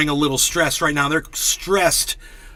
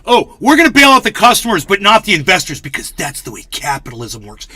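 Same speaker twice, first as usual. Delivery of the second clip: mock Biden; 2 semitones higher, 4 dB louder than usual. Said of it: "listen to Joe Biden".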